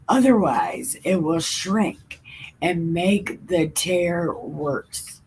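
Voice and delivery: slow, earnest Bible story reading; reading scripture aloud. Acted. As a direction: read it like a children's Bible story.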